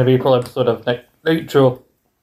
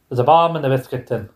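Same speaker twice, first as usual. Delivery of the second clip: put-on Northern Irish gag line; Northern Irish accent. Shown as a demonstration. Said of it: "I can do it Northern Irish".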